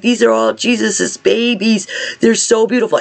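showing her sister, voice high with wonder; tender wonder. Retold or imitated. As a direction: coo over something precious. Retells showing sister the babies.

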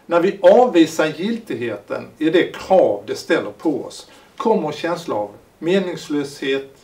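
measured, emphatic reading of a written thesis; formal reading aloud. Acted. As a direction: read it out deliberately, phrase by phrase. Reads his written introduction. (högtidlig högläsning)

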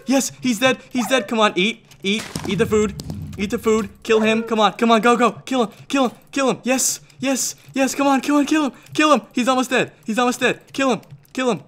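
high, urgent, rapid-fire cheering; frantic urging. Real, not acted. Player nearly finishing off his opponent, frantic. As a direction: egg on the kill, desperate to finish it.

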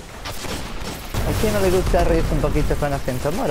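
lightly voiced Moroccan accent teasing the chat; mock Moroccan accent. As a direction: ham up a Moroccan accent for laughs. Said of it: "hablar con acento así moro".

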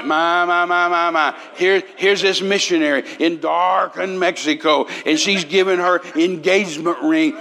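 lightly imitated pastor making a big deal; John Osteen. Preacher mimicking pastor announcing a missionary's ring, lightly hammed-up showman. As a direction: chant the exclamations, then announce it grandly. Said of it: "that's exactly the way John was".

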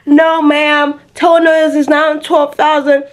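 a hint of a firm service lady; imitated salon lady. Lady telling a customer the new toenail price, lightly imitated. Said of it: "this lady be like".

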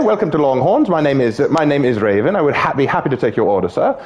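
lightly put-on English waitress voice; a touch of a British accent. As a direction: greet like a polite English server. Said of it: "He thought it was from England".

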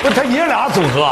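high loud disbelieving question; surprised. Real, not acted. Surprised at grandfather duo.

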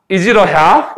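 "Is it a hat" as one connected phrase; quick linked pronunciation. Shown as a demonstration. Teacher repeats the natural version for students, quick linked pronunciation. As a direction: blend "Is it a" together, leading into "hat". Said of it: "이렇게 발음이 됩니다".

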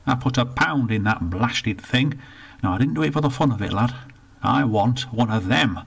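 put-on indignant old northerner, rushed in the middle; grumpy old Bertie. Bertie complains to the attendant, indignant grumble. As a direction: grumble about the lost pound.

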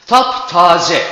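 "Taptaze" loud with tap punched; stress on TAP. Shown as a demonstration. Teacher showing stress on "Taptaze". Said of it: "Tapı ne yapıyoruz? Burada vurgulamış oluyoruz".

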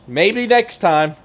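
teasing sing-song. Pretend. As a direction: rub it in playfully.

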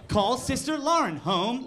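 slow, stilted command to a machine; lightly put-on voice, spacing out each word; weird command voice. Driver talking weird to the car's voice system, stilted and slow. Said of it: "I talk weird. I change the way that I talk".

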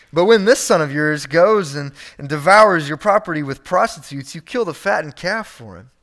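cold stress on this, disowning the brother; a touch of sneering older son; prideful sneer. Retold or imitated. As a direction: push him off onto the father. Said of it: "You can hear the pride".

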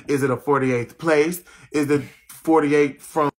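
real exasperated telling-off; annoyed, forceful rant; irritated rant. Real, not acted. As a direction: tell off the commenters, fed up and forceful. Snapping at commenters over forty-eight.

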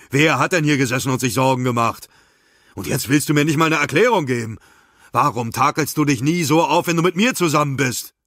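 jealous accusation. Acted. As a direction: hurl the questions at her. Jealous husband keeps accusing. (eifersüchtiger Vorwurf, laut und schnell)

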